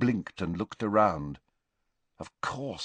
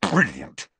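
savage; 3 dB louder than usual. Acted. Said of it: "said Harry savagely".

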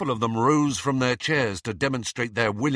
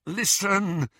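high, anxious interruption; rising panic; 10 semitones higher than usual. A narrator's reading. Harry trying to halt talk of revolution, rising panic. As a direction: cut in with panic starting to rise. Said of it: "with a rising sense of panic".

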